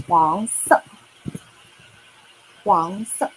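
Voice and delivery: 黄色 said slowly and clearly, both tones marked; slow model word. Shown as a demonstration. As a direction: present 黄色 to learners. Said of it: "So yellow in Chinese, that would be".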